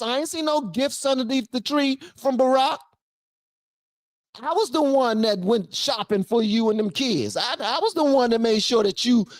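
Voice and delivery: lightly voiced husband, high and indignant; a hint of a husband calling out his wife; jealous husband. Husband scolding his wife over another man, mildly indignant.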